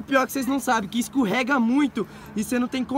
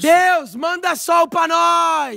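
shout; 2 semitones higher, much slower than usual. Real, not acted. Calling to God for sun.

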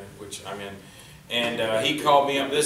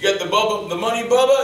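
raised, louder character voice; acted eager demand; 8 semitones higher, 8 dB louder than usual. Husband asking the briefcase man for money, eager. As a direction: call it out high and loud to Bubba.

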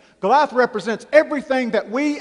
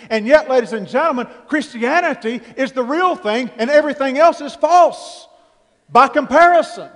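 building sermon; 2 semitones higher than usual. Real, not acted. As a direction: drive the point home to the congregation. Preaching at full force.

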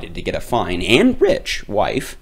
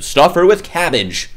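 lightly voiced doctor; 4 dB louder than usual. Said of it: "said a third".

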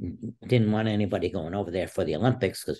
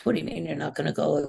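retold yelling; 9 semitones higher than usual. Wrestler retelling his coach's reaction, mild mock yelling. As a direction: imitate an upset coach's protest. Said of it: "he started yelling at me".

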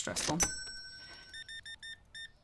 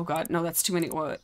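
ordinary delivery

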